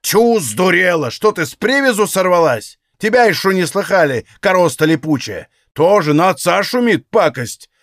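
put-on old man cursing his daughter; angry retort. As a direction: put the cheeky girl in her place. Father snaps back at daughter.

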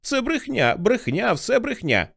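high-pitched desperate cry of denial; angry denial. Acted. Dussault denies it all at Johnny, high and furious. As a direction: refuse to believe it, voice leaping up. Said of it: "закричав на нього Дюссо".

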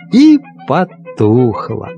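ordinary delivery

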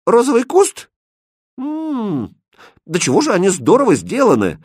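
high, loud admiring cry; delighted. Acted. Princess admires the rose bush, delighted high exclamation. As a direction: marvel at the craftsmanship.

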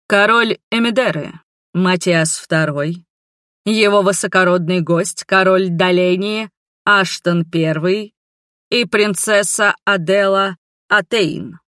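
slow, booming herald announcement; town crier. Acted. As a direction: announce the names to the whole hall. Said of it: "Голос заглашатая звучал так, что его можно было услышать и на главной площади".

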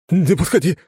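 high, loud panicked howling; terrified wail. A narrator's reading. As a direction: scream to ward off an evil spirit. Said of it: "возопил он на весь подъезд".

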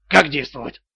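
low, uneasy query; bewildered question. A narrator's reading. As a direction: ask as a baffled debtor. Debtor baffled by the threat. (растерянный низкий вопрос)

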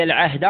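العهد ending in a, "al-'ahda". Shown as a demonstration. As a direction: say العهد as "al-'ahda", with final fatha. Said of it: "أو العهد مثلث".

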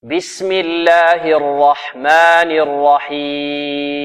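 slow chanted basmala; tajweed chant; Quranic recitation. Acted. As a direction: intone it slowly for the class to follow. Leads recitation.

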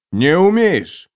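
high, loud snapping denial; sharp denial. A narrator's reading. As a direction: cut him off hard. Flat contradiction in argument.

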